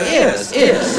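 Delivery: "Oh, ears" said high, as "ears" instead of yes; posh "ears" for yes. Shown as a demonstration. At the golf club, posh Tory saying yes as "ears". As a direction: say "ears" like a home counties Tory. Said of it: "they say ears".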